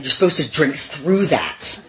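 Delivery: imitating her husband, slow and deliberate; drawn-out mock advice. Husband advising her, slow mock voice. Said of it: "and he said".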